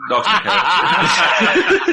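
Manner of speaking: slow words through laughter; laughing. Real, not acted. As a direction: laugh it out slowly. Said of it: "laughs while saying".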